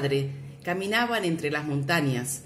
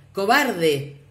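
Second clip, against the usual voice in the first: annoyed shout; 3 semitones higher, 5 dB louder than usual. A narrator's reading. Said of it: "Molesto con la respuesta, el niño gritó".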